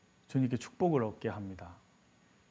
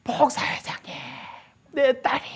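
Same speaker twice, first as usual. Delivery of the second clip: high, loud cry from outside; calling out loud; 11 semitones higher, 3 dB louder than usual. Retold or imitated. Woman calling to the pastor from outside, a high loud cry. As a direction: shout for the pastor across the room. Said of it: "밖에서 큰 소리로 부르는 거예요".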